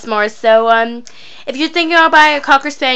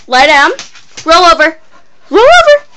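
high dog command; 6 semitones higher, 7 dB louder than usual. Real, not acted.

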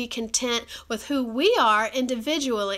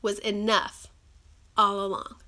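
slow, spaced out for note-takers; dictated big question; slower than usual. Real, not acted. For viewers writing things down, slow and deliberate. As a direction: repeat it slowly, pausing before the last phrase. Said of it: "write that one down".

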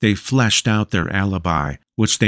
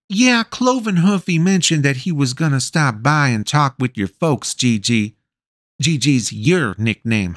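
much higher, firm motherly insistence; bossy, doting mother; 7 semitones higher than usual. A narrator's reading. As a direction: brook no argument, a big mom in charge. Voices the mother Gretchen.

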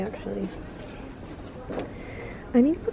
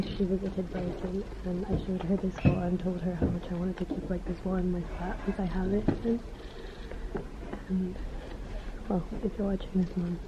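hushed, much softer whisper in a bookshop; 3 semitones lower, 11 dB quieter than usual. Real, not acted. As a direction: keep it low and secretive. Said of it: "I always feel like I have to whisper".

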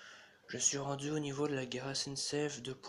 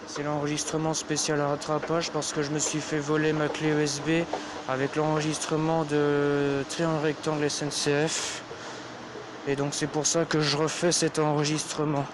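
through a face mask; 6 dB louder than usual. Real, not acted. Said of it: "Je parle avec un masque".

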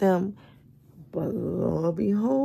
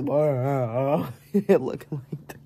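sleepy whisper; 4 semitones lower, much slower than usual. Real, not acted. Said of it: "That's why I'm sounding like this".

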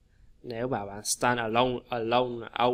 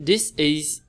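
phrasing demo; slower than usual. Shown as a demonstration. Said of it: "nghĩ chỗ nào".

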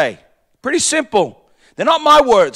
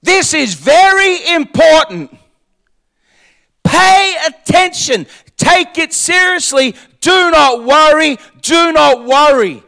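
urgent command; 5 semitones higher than usual. Retold or imitated. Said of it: "Jesus was saying".

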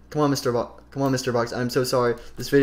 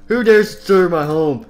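loud, raised theatrical demand; indignant monster challenge; 5 semitones higher, 9 dB louder than usual. Acted. Springtrap confronting an intruder, loud indignant challenge. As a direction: boom it out as an offended Springtrap.

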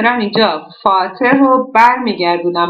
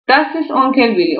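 slow reading; 3 semitones higher, much slower than usual. Shown as a demonstration. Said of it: "reading German example aloud".

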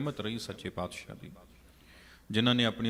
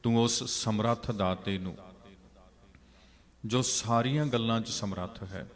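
fervent preaching; 4 dB louder than usual. Acted. Preacher urges congregation, louder.

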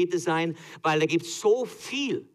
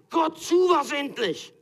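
much higher, louder, slow, hammed-up yell; comic cry to God; 13 semitones higher, 5 dB louder, slower than usual. Moses crying out to God, mock desperate yell. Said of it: "zu Gott zu schreien".

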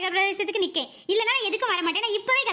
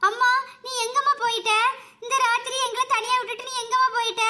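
put-on scared child voice. Children beg their mother on the phone to come home. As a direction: plead like a frightened child.

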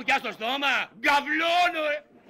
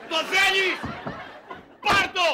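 mocking shout; 5 semitones higher than usual. Husband offering himself, laughing.

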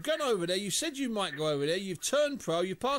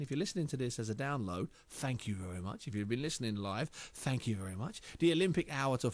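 much lower and softer, mock mumbling old man; toothless old man; 6 semitones lower, 4 dB quieter than usual. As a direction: lightly play a gummy old man without his teeth. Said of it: "let me put my teeth back in".

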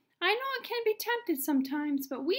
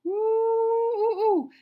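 playful awed ooh; 5 dB louder, much slower than usual. Pretend. Reacts to fire from heaven.

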